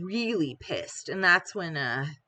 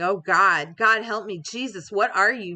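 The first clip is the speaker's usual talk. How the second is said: retold terrified yell; 2 semitones higher, 6 dB louder than usual. Bleeding man screams in terror at the monster, yelling. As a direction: cry out to God as if terrified. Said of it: "He yelled something like".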